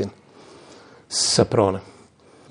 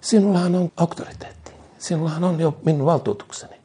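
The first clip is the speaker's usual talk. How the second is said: voice of God; 6 semitones higher than usual. Acted. Preacher voices God to Moses.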